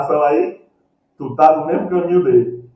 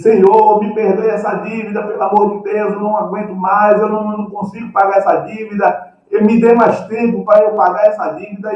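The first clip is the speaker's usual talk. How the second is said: pleading with the king, pitched up; begging debtor; 5 semitones higher than usual. Retold or imitated. Debtor begging the king to forgive his debt, pleading high. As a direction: beg for mercy, voice raised high. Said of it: "E ele diz".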